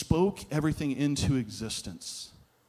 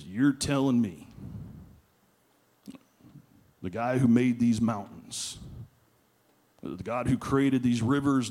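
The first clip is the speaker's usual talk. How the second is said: lightly acted skeptical mountain man. Mountain man challenges the preacher's story of Jesus, skeptical. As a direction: question it in pieces, with long incredulous pauses. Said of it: "you can just see the skepticism ... his voice".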